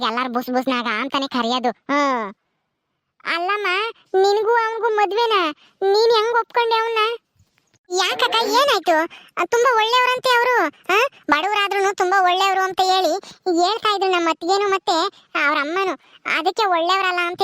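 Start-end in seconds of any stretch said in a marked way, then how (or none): 3.2-14.1 put-on higher girlish voice, worried; young bride. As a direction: play the anxious young bride, pitched up.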